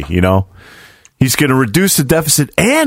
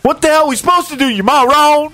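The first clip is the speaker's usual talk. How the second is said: very high fast shrieking voice; Animal House quote; faster than usual. Retold or imitated. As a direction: rattle it off in a squeaky screech. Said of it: "they've seen that part".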